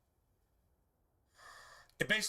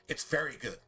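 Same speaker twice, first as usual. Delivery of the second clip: very leaned on, falling off at good; stress on very; 3 semitones lower than usual. Shown as a demonstration. Preacher quoting God on creation, stressing very. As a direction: give the word very the weight.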